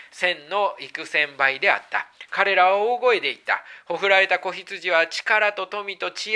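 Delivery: unhurried, reverent reading aloud; scripture reading. Acted. Reads scripture passage aloud.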